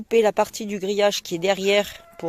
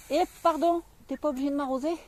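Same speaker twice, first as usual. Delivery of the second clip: surprised protest; 7 semitones higher, faster than usual. Real, not acted. Husband suddenly sprays her.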